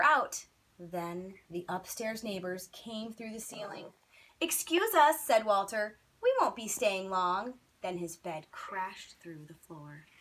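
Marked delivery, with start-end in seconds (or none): 4.4-7.6 polite. Acted. Boy apologises dropping through ceiling.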